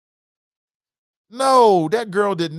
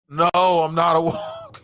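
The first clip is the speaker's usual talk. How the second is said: woken parent; 3 semitones higher, 5 dB louder, slower than usual. Acted. Parent woken by kid answers.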